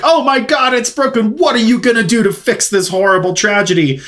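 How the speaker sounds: high, hammed-up horror, like a fake victim; mock outraged gasp. Con artists scolding the boy over a broken vase, in hammed-up high outrage. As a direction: overplay the shock to guilt him. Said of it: "come in real hot".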